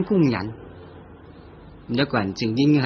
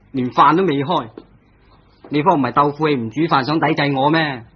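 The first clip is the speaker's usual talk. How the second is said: annoyed grumble; 2 semitones higher, 4 dB louder than usual. Acted. Husband angry dinner not cooked.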